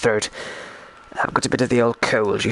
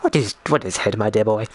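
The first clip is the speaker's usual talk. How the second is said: mildly courteous, lower-pitched gentleman's enquiry; understated mock-genteel politeness; polite asking; 4 semitones lower than usual. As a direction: retell it as a polite, puzzled question. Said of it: "I politely asked him".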